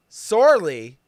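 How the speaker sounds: ordinary talk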